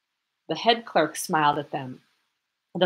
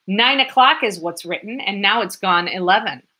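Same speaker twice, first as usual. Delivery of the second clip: shouting; 3 semitones higher, 6 dB louder than usual. Acted. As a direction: keep yelling, pointing at the clock. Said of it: "shouted the lieutenant".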